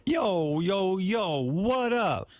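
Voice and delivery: high, hammed-up hip-hop greeting; mock street voice. Shown as a demonstration. Host prodding the guest to perform, high mock street voice. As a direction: stretch out an exaggerated high-pitched street hail. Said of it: "can't you be a wigger?".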